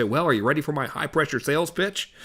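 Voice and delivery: light kidding lead-in; joking. Shown as a demonstration. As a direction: tease the client lightly. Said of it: "so he knows I'm kidding".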